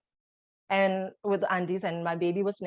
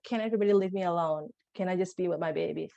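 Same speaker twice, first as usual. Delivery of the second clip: rushed inner plea; faster than usual. Retold or imitated. Wishing everyone gone, unspoken.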